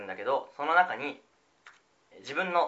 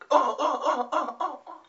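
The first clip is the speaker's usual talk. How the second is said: game sound effect; 14 semitones higher, 5 dB louder, much slower than usual. Shown as a demonstration. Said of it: "細かすぎて伝わらないモノマネ".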